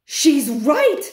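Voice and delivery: loud, high witch cry; witch scream. Acted. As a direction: scream agreement. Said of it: "screamed another voice".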